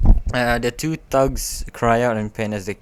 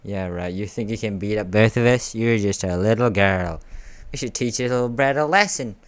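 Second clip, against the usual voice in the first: hammed-up thug character; put-on thug voice; 3 dB louder than usual. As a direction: sneer at a little kid like a henchman. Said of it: "I don't know why I'm putting this voice".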